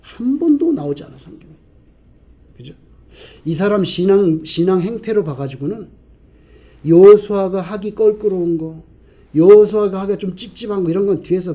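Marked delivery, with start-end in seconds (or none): none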